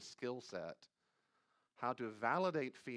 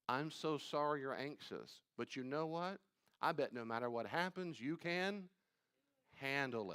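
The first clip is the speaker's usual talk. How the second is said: nurturing parent; 3 semitones higher than usual. Acted. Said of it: "a nurturing parent say".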